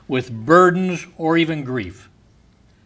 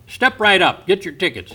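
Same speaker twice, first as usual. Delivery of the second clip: carnival barker; 2 semitones higher than usual. Retold or imitated. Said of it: "like the man at the carnival".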